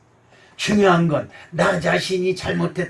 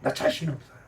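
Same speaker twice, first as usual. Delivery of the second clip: normal talking voice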